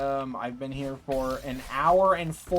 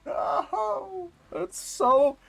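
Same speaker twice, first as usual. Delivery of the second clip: real frustration; 5 semitones higher, slower than usual. Real, not acted. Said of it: "I was so mad".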